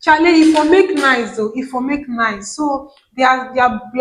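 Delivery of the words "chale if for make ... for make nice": Ghanaian pidgin. Shown as a demonstration. Telling viewers what Ghanaians say, playful Ghanaian pidgin. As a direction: imitate the Ghanaian pidgin with relish. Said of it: "Ghanaians will say".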